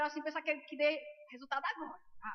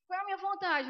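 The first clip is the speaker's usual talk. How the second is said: raised, louder questioning voice; stern challenge; 5 semitones higher, 5 dB louder than usual. Retold or imitated. Holy Spirit challenging the praying woman, stern challenge. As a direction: press the question firmly, pitched up.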